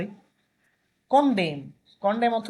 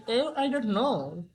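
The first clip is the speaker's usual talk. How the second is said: slow doubtful shrug; much slower than usual. Retold or imitated. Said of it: "লোকটা তার কাঁধ উঠায় বলতেছে যে".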